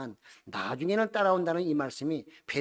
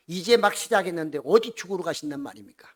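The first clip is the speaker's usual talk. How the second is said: pleading; 5 dB louder than usual. Retold or imitated. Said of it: "하소연하듯이 아니면 훈계하듯이".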